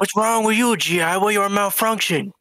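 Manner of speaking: put-on Vietnamese accent. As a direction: play a Viet Cong officer with a Vietnamese accent.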